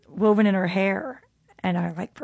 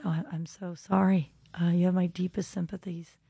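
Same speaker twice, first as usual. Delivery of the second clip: hushed, gentle sympathy, a little softer; soft condolence; 6 dB quieter than usual. Retold or imitated. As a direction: offer condolences quietly and slightly haltingly. Retells condolences to bereaved mother.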